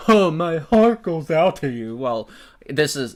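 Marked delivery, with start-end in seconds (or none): 0.1-2.0 mock sincere sympathy. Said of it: "with your Nazi salutes".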